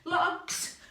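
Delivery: loud high shouted cues; playful game caller shouting; called-out commands. Acted. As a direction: call the obstacles out with excitement. Calling out game instruction.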